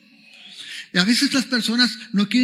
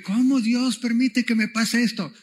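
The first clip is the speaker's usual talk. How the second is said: higher-pitched, acted protest to God; mock complaint; 5 semitones higher than usual. Preacher voicing believers who question God, mock complaining. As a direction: lightly plead as if wronged.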